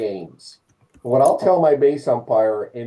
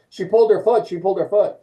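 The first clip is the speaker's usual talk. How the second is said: coach complaining; 6 semitones higher, 3 dB louder, faster than usual. Retold or imitated. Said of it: "the coach comes to you ... and says".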